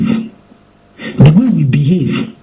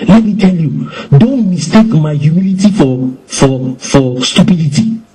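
angry Christian; 3 semitones higher than usual. Retold or imitated. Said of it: "He's so angry".

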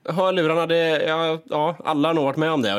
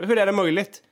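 higher, quicker "hur är det möjligt?" in exasperation; exasperated self-talk; 4 semitones higher than usual. Retold or imitated. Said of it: "säga till mig själv så här". (högre, uppgivet "hur är det möjligt?")

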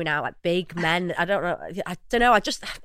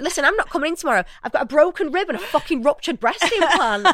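fast, higher flustered report; frantic phone call; 5 semitones higher than usual. Retold or imitated. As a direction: rush it out, dazed and rattled. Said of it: "I was like".

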